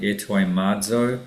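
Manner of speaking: "etoimazo" with a voiced Z; "etoimazo", buzzing Z before the final o; Z sound. Shown as a demonstration. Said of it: "pronounce it like with a Z sound".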